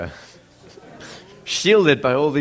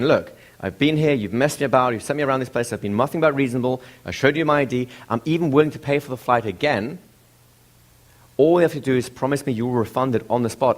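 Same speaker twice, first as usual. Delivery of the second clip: raised, firm complaint, a bit higher; justified anger; 3 semitones higher than usual. Retold or imitated. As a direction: press your case with controlled indignation. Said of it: "kind of a justified anger".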